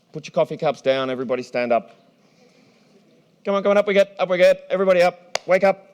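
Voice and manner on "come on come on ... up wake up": rousing call. Real, not acted. Rousing audience to stand up.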